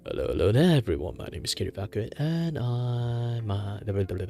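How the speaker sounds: cheery streamer intro voice; chirpy host greeting; cute anime streamer. Acted. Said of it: "I'm gonna do the usual thing".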